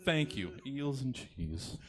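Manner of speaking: lightly put-on British, drawn out; mock British accent. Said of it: "yours with a British accent".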